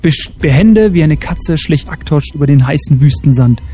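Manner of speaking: measured storyteller's reading; story narration. Acted. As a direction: narrate an adventure tale with deliberate phrasing. Reads a story aloud.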